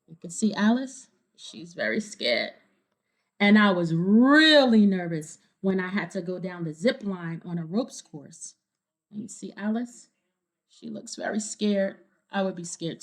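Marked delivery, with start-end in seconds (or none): 3.4-8.5 clear, lively storybook reading; reading to children. A narrator's reading. Reader telling kids the story, bright storybook narration. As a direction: read it to a room of kids. Reading picture book aloud.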